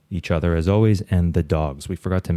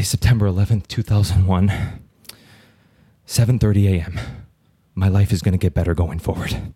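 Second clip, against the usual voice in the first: nervous caller voice. Acted. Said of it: "I'll do both voices".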